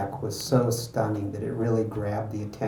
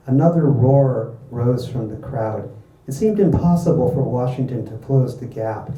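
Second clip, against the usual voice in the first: animated book reading, pitched up; story narration; 2 semitones higher, 6 dB louder than usual. A narrator's reading. Author reading a race scene to an audience, animated narration. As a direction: read it out like a dramatic race story.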